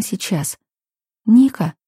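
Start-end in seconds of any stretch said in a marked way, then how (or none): 1.3-1.7 light, high, concerned question; worried chirp. A narrator's reading. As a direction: chirp it out with a touch of worry. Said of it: "обеспокоенно чирикнула Яся".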